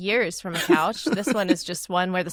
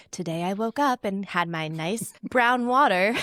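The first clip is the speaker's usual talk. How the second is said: vocal fry influencer. Retold or imitated. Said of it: "the influencer voice you do".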